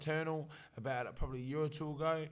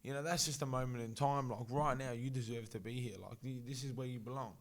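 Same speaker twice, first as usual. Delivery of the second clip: reassuring pep talk; 4 dB quieter than usual. Retold or imitated. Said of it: "I tell 'em".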